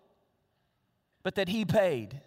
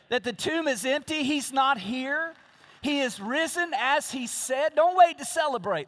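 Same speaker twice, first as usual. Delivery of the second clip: building exultation; 4 semitones higher, 3 dB louder than usual. Real, not acted. Preacher building to a climax.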